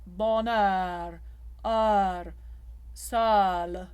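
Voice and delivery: bonheur with a wide open eu; open mixed vowel. Shown as a demonstration. Coach demonstrating the open OE to singers. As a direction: sol with an open O. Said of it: "right here at the masseter muscle".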